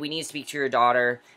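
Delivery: plain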